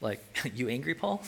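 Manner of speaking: soft, tentative check on an angry man; cautious concern. Acted. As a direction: ask gingerly, half amused. Gently checking on an angry Paul.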